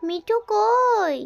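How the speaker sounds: long drawn-out "where are you" call; calling a pet. Real, not acted. Calling out to Mithu the pet, drawn-out singsong. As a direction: stretch the last word out, slow and playful.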